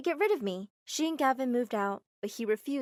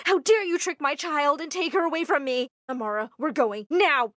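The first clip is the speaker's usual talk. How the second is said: furious mother; 4 semitones higher, 8 dB louder than usual. Acted. Mama furious at Armitage.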